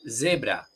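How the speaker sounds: "zebra" with an open e, ZEH-bra, falling; Spanish-style zebra. Shown as a demonstration. Contraste con la palabra inglesa. ("zebra" con e abierta, a la española)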